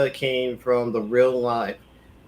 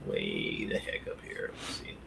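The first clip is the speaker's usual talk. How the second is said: whispering; 14 dB quieter than usual. Real, not acted. Muttering to self over notes.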